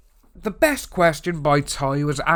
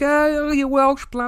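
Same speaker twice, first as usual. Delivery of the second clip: high, slow sing-song mock of an American; exaggerated mock American tease; mocking American friends; 12 semitones higher, 4 dB louder than usual. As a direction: tease it like a friend teasing his accent. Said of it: "people just go for my accent and like".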